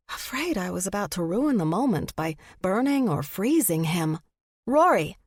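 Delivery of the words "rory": blurted high and loud; flustered woman blurting her nickname to a handsome stranger; spit out. A narrator's reading. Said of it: "I spit out".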